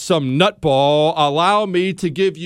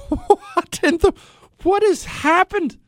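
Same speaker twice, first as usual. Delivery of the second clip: very high, slow, stunned; can't believe it; pitched-up incredulous laugh-talk; laughing disbelief; slower than usual. Real, not acted. Laughing disbelief after clip.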